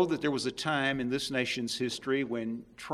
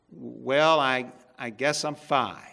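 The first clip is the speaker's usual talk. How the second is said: hesitant; 5 dB louder, slower than usual. Acted. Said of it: "he said hesitantly".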